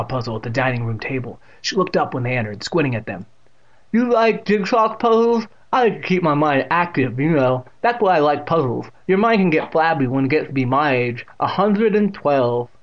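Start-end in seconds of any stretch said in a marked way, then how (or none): 3.9-12.7 loud, put-on old lady voice; elderly character voice, drawing out the last words; old woman. A narrator's reading. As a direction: play a feisty, very aged aunt. Elderly aunt's voice in story.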